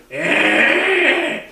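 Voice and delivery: loud, high grunting Wookiee noise; loud, high mock Wookiee grunt. Shown as a demonstration. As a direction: bark it like a Wookiee. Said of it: "I actually hit that one well".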